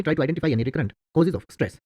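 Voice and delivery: slow, careful English example; measured reading for learners; slow dictation. Shown as a demonstration. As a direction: read it slowly, word by word. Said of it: "तो आप कहेंगे".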